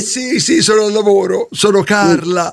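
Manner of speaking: fake woman's voice. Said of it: "la voce un po' bracuta".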